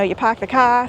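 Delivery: "park the car" said as "pahk the cah", no R sounds; dropped R's. Shown as a demonstration. Vlogger showing viewers the local R-dropping New England accent. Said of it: "forget to, uh, pronounce our R's".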